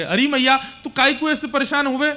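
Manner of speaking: put-on high, insistent child to mother; pleading reassurance. Krishna clinging to weeping Yashoda, high urgent reassurance.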